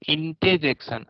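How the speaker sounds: इंटरजेक्शन with the r dropped, "इंटेजेक्शन"; correct pronunciation. Shown as a demonstration. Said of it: "आर यहाँ से गया". (इंटरजेक्शन बिना र के)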